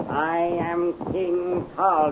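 slow, loud, stress on Tal; grand proclamation. Acted. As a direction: savour every word, regal. Magician proclaims himself king.

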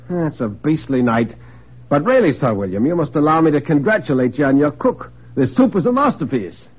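a hint of a nervous guest paying compliments; uneasy dinner guest. Plays guest Bedford at dinner.

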